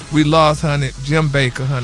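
mock-solemn announcement. Real, not acted. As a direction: break the sad news gently, voice dropped. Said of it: "why you say it like that?".

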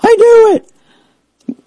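high, drawn-out squeal of I knew it; giddy vindication. Retold or imitated. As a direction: gleefully stretch it out, mock thrilled. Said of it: "I was like".

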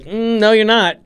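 lightly acted doubting bouncer; sceptical security guard. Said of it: "or the security guard".

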